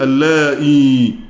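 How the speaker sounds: slow, with the long ee sound kept in اللائي; full original form. Shown as a demonstration. Teacher shows students the full original word, drawn out slowly. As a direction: spell out اللائي slowly, ending in ئي. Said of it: "هي أصلًا عندنا إيه".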